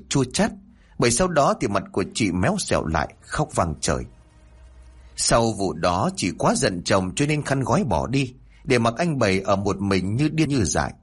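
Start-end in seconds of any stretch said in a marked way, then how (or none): none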